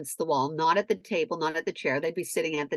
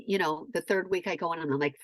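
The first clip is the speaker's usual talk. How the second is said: ordinary delivery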